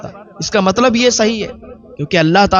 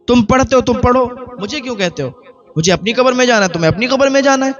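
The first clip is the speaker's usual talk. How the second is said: high, teasing mock voice, rushing at the end; a light put-on of a scoffing wife; 6 semitones higher, faster than usual. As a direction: toss off her husband's nagging with a sneer. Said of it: "میں مذاق کرتی تھی".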